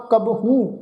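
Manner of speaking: ਕਬਹੂ ending in long nasal oo; sounded vowel marks. Shown as a demonstration. Teacher explains the marks, ਕਬਹੂ with nasal long oo. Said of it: "ਟਿੱਪੀ ਦਾ ਪਾਠ ਅਸੀਂ ਉਚਾਰਨ ਕਰਨਾ ਵਾ".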